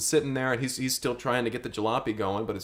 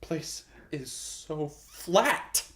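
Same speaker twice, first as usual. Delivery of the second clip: stunned whisper; 3 semitones higher, 8 dB quieter, much slower than usual. Acted. High character losing his mind.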